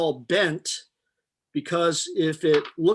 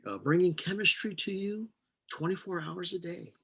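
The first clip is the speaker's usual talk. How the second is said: radio announcer voice; 5 dB quieter than usual. Pretend. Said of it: "it's the chemistry radio station".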